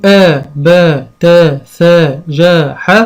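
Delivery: quick chant of the syllables only, the wrong way; reciting syllables without the letter names; wrong way, bare syllables. Shown as a demonstration. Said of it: "طبعًا غلط".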